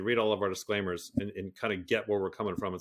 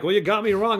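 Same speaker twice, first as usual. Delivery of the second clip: high, loud whiny complaint; high loud mock whine; mocking complainer; 10 semitones higher, 9 dB louder than usual. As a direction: mimic the whining customer. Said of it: "And they're like".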